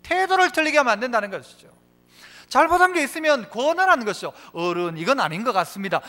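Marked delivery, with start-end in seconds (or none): 4.5-6.0 lower, polite suggestion; respectful gentle advice. Acted. Young believer respectfully correcting an elder, gentle advice. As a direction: advise an elder deferentially. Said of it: "이렇게 권해야 되지".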